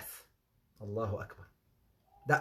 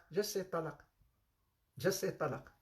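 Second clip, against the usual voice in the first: much softer, coaxing the words out; whispered urging; 10 dB quieter than usual. Retold or imitated. Wife coaxing husband to say divorce, softly. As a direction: urge him gently and softly. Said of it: "she said".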